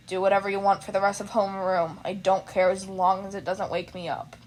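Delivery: low, flat tired voice; sleepy teacher, half awake; lightly voiced weary teacher. Teacher voice continues.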